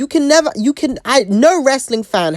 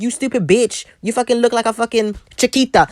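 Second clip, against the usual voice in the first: mocking Raquel; 4 semitones higher than usual. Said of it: "Or, like".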